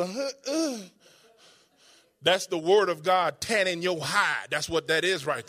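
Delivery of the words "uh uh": a higher, hesitant uh uh; uneasy uh uh, higher and softer; imitated uh uh. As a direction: sound caught off guard. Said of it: "Notice it got real".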